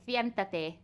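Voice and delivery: "Siéntate" with lisped th sounds for the s; imitated Spanish lisp. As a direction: mimic a Castilian lisp on "Siéntate". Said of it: "they sound like they got a lisp".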